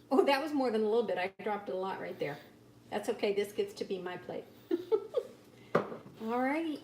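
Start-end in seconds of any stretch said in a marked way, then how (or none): 0.1-1.2 quick, louder, caught off guard; startled little exclamation; surprised. Real, not acted. Drops too much cheese. 4.7-5.3 short giggle. Real, not acted. Laughs at her spill.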